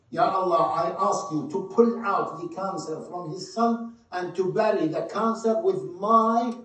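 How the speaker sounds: fervent plea building to a loud, high cry; rising prayer. Retold or imitated. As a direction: pray for his son with growing force. Grieving mother prays aloud.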